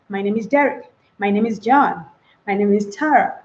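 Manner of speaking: "My name is" run together lightly before each name; casual, flowing "My name is"; smooth, crisp introduction. Shown as a demonstration. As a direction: link "My name is" in one easy flow. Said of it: "as smooth and as crispy as".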